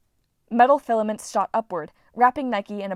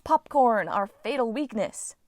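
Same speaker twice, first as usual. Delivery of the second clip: Hazel impression; 2 semitones higher, slower than usual. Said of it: "Leo did his best Hazel impression".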